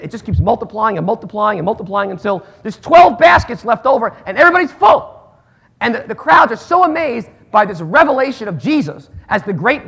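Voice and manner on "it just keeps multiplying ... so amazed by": excited climax. Acted. Climax of miracle story.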